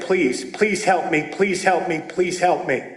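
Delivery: low, soft begging; whisper-close repeated plea for help; quiet plea. Retold or imitated. Praying for help before his scared daughter, low and soft. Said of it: "I said".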